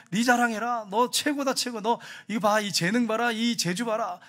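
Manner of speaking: lightly voiced, insistent tempter; Satan egging someone on. Satan pushing a person to show off, insistent goading. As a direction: urge them on to boast. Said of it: "이게 사탄이 하는 거예요".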